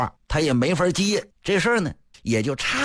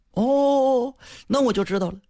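put-on knowing old master; 12 semitones higher than usual. Old master to guest, a higher knowing reply. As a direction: play the old gentleman catching on. Fan acknowledges guest, voiced figure.

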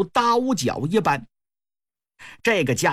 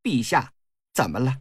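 lightly voiced sneering consort; a cool, mocking push on the king; cold sneer; 2 semitones higher than usual. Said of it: "冷笑了一声".

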